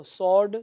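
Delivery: स्वॉर्ड said as "sord", no W; silent W. Shown as a demonstration. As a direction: model स्वॉर्ड with S straight into the vowel. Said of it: "ये डब्ल्यू को हटा दो".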